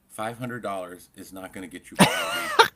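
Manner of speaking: loud, laughing insistence; laughing emphatically. Real, not acted. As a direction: push the point while cracking up.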